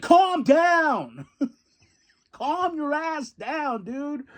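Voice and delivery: high voice laughing through the words; laughing mock scold. Bobby telling Hook to calm down, laughing. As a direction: scold him while cracking up. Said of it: "Bobby's like".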